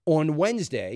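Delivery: normal talking voice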